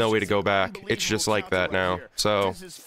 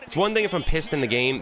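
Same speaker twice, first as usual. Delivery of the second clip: ranting; 4 semitones higher than usual. Real, not acted. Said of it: "I'm so pissed".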